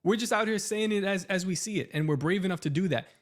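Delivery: high-pitched, worked-up scolding; riled-up telling-off of a rival; heated rant. Real, not acted. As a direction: let the real indignation push your pitch way up. Heated rant continues, calls him coward.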